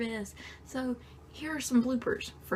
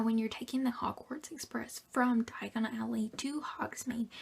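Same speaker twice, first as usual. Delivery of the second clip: whispering. Real, not acted. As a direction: whisper it all, close to the mic. Whispered video tips throughout.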